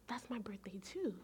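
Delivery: hushed whisper with a small laugh; quiet hushed. Retold or imitated. Tech quietly reveals a shared birthday, whispering. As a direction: breathe it out, almost secret. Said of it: "And she got really quiet".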